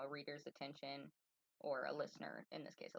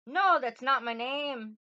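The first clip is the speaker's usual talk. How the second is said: loud, higher, slow Irish-tinged denial; Rumpelstiltskin, Irish accent; 9 semitones higher, 16 dB louder, slower than usual. Acted. Little man rejects the queen's guess, gloating in an attempted Irish accent. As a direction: draw out the refusal with an Irish lilt. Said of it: "like, an Irish accent".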